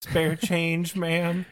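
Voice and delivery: begging for spare change; high, pleading street beggar. Pretend. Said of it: "You make it sound like these poor merchers are out here struggling".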